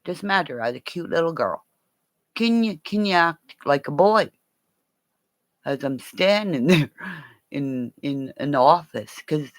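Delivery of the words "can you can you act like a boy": slightly raised, higher-pitched asking voice; retold request. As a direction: put the question as a mild, higher request. Retold request, first milder take.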